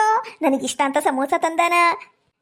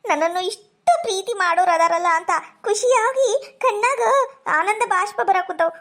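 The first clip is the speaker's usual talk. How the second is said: teary, a little higher, moved by his love; tearful; 3 semitones higher than usual. Acted. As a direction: speak through happy tears, voice catching. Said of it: "ಯಾಕ್ ಕಣ್ಣೀರ್ ಹಾಕ್ತಿ?". (ಆನಂದದ ಕಣ್ಣೀರಿನ ಧ್ವನಿ)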